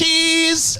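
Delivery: put-on high, gleeful little-kid cry; toddler shout. Dad imitating his three-year-old answering mom, high. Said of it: "looks up to my wife and goes".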